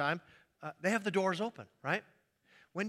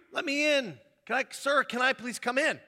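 higher, louder begging to come in; pleading stranger; 5 semitones higher, 3 dB louder than usual. Acted. Stranger behind the door begging to be let in. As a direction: plead through the closed door.

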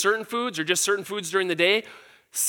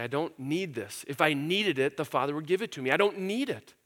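quiet calm trust; 3 semitones lower, 5 dB quieter than usual. Retold or imitated. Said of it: "submit himself to the Father and say".

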